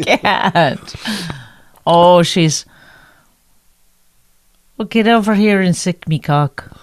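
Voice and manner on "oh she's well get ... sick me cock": lightly voiced mock Irish lady; half-hearted Irish accent. Trying again after "I can't", mock Irish lady. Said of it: "now do an Irish lady".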